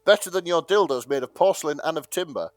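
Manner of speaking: reading bawdy verse with a lilting rhythm; hammed-up verse reading. To friends, reading the porn poem aloud in verse style. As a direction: recite it like a mock-grand poem.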